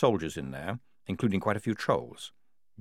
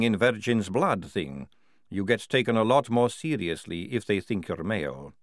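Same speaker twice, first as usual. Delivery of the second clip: a touch of indignant explaining; confiding vampire character; 2 semitones higher than usual. Acted.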